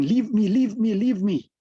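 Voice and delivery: a guru crying out to a tree he is hugging himself; pleading cry. Retold or imitated.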